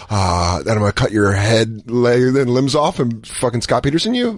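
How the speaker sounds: low-pitched joking threat; mock menace. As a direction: drop low for a mock-deadly reply. Acted reply to mad girlfriend.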